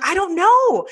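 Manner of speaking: high-pitched helpless protest; retold flustered bafflement. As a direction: throw up a baffled reply, hammed-up. Her flustered answer to husband, retold.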